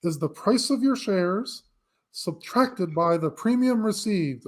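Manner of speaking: lightly voiced classroom teacher, dictating; science teacher voice. Shown as a demonstration. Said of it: "I'm gonna use my science teacher voice now".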